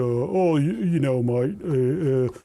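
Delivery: hesitant mock Aussie, trailing into noises; put-on Australian drawl; other Australian accent. Shown as a demonstration. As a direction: fumble through a bad Australian accent. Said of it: "they talk like this".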